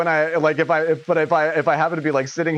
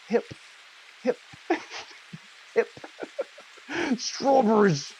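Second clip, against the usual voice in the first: mock sneeze; 8 semitones higher, 3 dB quieter than usual. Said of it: "did you just sneeze".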